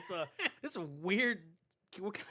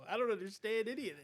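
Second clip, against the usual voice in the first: Connery impression; 4 semitones higher, faster than usual. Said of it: "making Connery a fucking Italian".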